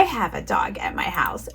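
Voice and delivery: put-on stage whisper to the kids. Shown as a demonstration. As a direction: lean in and whisper it like a secret. Teacher whispers to class.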